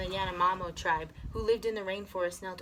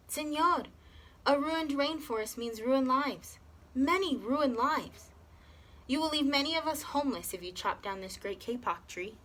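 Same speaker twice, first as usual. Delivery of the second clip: squeaky frog; 6 semitones higher than usual. A narrator's reading. Tree frog piping into the man's ear, squeaky and high. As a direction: pipe it like a tiny tree frog. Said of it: "In a squeaky voice".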